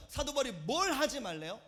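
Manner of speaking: normal talking voice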